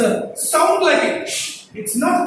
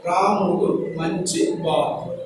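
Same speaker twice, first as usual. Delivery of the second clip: "Ramudu manchivaadu" slow, low and evenly stressed; measured, lower, uniform "Ramudu manchivaadu"; 7 semitones lower, 4 dB quieter than usual. Shown as a demonstration. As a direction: say "Ramudu manchivaadu" slowly with no word standing out. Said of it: "there is no stress here".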